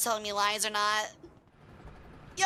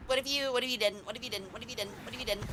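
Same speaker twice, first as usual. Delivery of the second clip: mock taunt; 6 dB quieter, faster than usual. Taunting enemy tank repeatedly.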